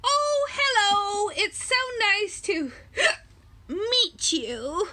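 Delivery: high, slow, sweet penguin greeting; storybook penguin says hello. Acted. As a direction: greet the kids as the little penguin. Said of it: "penguin character greets reader".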